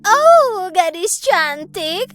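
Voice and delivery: lightly voiced sweet old beggar woman; the disguised queen sweetly begs Snow White for soup. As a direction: flatter the girl as a harmless old woman. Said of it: "terdengar suara wanita tua".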